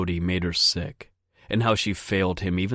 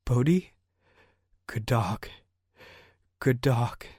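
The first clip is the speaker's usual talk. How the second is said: 1 anxious pleading to dog; 5 semitones higher than usual. A narrator's reading. Girl finds her dog dying.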